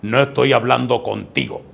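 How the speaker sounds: lightly voiced ominous stranger; deep possessed-man voice. Possessed man rebuffing the young preacher, low grave voice. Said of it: "Y me dice él así".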